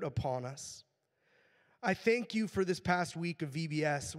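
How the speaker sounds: earnest, measured prayer with pauses between phrases; public prayer. Real, not acted. Pastor thanking God for the VBS week, praying aloud. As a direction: lead the congregation before the Lord, phrase by phrase.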